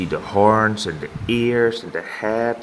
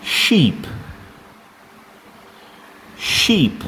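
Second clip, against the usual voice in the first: exaggerated teacher voice; 8 semitones higher than usual. Shown as a demonstration. Teacher modelling animal names.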